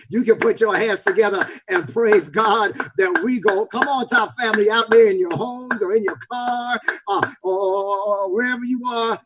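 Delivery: sermon call to praise; rally the congregation with stretched phrase endings; rousing preaching. Real, not acted. Preacher calling listeners at home to praise, rousing preaching.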